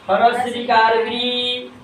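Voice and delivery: slow, sounded-out हरस रीकार री for pupils; spelling demonstration. Shown as a demonstration. Teacher spells a vowel sign for pupils, slow demonstration. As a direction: draw out हरस रीकार री slowly. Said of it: "तो इसको बोलेंगे हरस रीकार".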